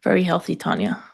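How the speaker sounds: dry sarcastic praise. Acted. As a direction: say it with deadpan sarcasm. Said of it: "I'm being sarcastic".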